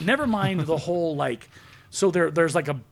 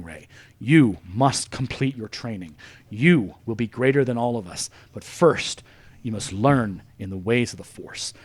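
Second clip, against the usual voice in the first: Luke as a wise mentor; 6 semitones lower than usual. Retold or imitated. Luke mentoring Rey, acted.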